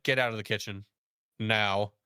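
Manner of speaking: low, stern command, with "Now" set apart; stern order. Retold or imitated. Fed-up chef ordering stepdad out of the kitchen, low and stern. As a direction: order someone out in a low, controlled voice.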